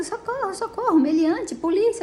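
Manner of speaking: high-pitched mock cries, held back in volume; imitated screaming for help. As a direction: mimic her calling out for the police. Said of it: "ela continuava gritando".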